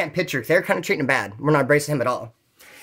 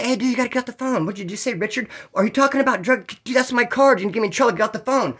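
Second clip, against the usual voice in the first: urgent protest; 5 semitones higher than usual. Retold or imitated. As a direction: press him to end the call. Retold protest over the phone card.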